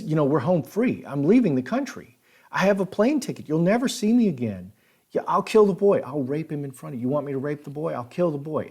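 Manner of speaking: panicked pleading. Retold or imitated. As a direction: imitate a cornered man babbling to save himself. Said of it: "he's starting to panic".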